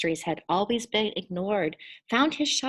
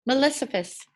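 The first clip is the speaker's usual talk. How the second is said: zachwycony okrzyk; exclaimed; 5 semitones higher than usual. Acted. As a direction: call out the name in delight. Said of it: "he exclaimed".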